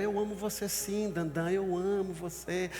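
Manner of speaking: a lovesick Samson soothing Delilah, slow; Samson pleading. Acted. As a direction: coax her like a lovesick man. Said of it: "Ele olhou pra ela".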